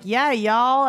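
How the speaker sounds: light Southern drawl imitation; Southern accent. Visitor down south morphing into locals, Southern accent. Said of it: "when I go down south".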